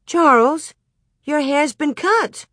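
high, shocked exclamation; exclaiming. A narrator's reading. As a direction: gasp it out in disbelief. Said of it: "Ma exclaimed".

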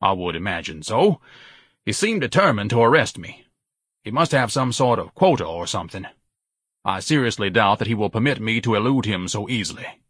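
lightly voiced pompous son; a hint of lofty, measured indignation.

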